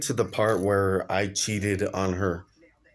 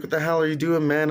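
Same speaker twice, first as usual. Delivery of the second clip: put-on raised voice, scolding a kid; angry yell; 6 semitones higher, faster than usual. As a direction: yell at him for kicking the bird. Yelling at kid kicking bird.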